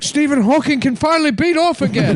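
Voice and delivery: high, laughing proclamation; announcer voice. Retold or imitated. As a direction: announce it triumphantly.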